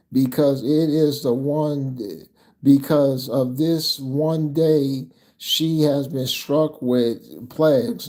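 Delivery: slow, deliberate verse reading; scripture reading. Acted. Preacher reads God's warning to his people, measured scripture reading. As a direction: read it out firmly, spacing the phrases.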